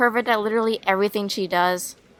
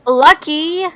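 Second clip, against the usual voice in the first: envious excitement; 5 semitones higher, 6 dB louder than usual. Acted. Envies friend's concert visit.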